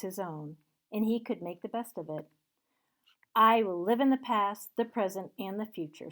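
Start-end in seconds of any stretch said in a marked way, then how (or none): 3.3-6.1 joyful repeat. Acted. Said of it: "Scrooge repeated".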